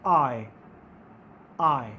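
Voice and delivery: आई said as a slow gliding "ah-ee"; teacher modelling the आई diphthong; diphthong demo. Shown as a demonstration. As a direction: stretch आई from ah into ee. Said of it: "इसको किस तरह से pronounce करते हैं".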